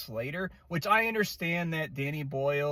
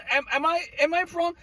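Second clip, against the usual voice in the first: higher, pleading disbelief; real exasperated disbelief; incredulous; 11 semitones higher, faster than usual. Real, not acted. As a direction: am I crazy here. Rant, asking viewers for agreement.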